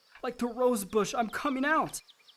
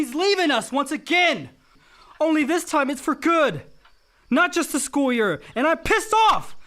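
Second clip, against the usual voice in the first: louder and rising into anger; bitter outburst; 3 semitones higher, 4 dB louder than usual. Acted. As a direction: let the hurt burst out as rage. Son erupts at dying father.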